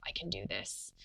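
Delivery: soft whispered self-affirmation; whispering to herself. Retold or imitated. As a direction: murmur it to yourself to keep going. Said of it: "whispering to myself".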